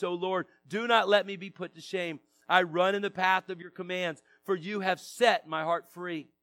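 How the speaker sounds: measured public Bible reading; scripture reading. Real, not acted. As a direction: read the psalm out to a congregation, phrase by phrase. Reads psalm aloud to congregation.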